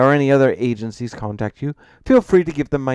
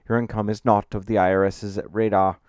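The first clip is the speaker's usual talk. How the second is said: louder, assured professional voice; authoritative, confident; 4 semitones higher, 7 dB louder than usual. A narrator's reading. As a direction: lay down the facts with confidence. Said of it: "presenting a tone of authority and confidence".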